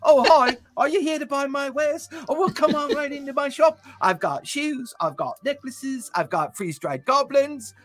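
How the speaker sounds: high-pitched wired shopkeeper; high, over-eager halfling sales patter; jittery halfling. Acted. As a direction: pitch your wares as a manic halfling. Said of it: "slightly high on meth".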